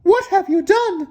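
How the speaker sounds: mother confronting him over the mess, dismayed. A narrator's reading. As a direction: demand it like an upset mom. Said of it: "she said".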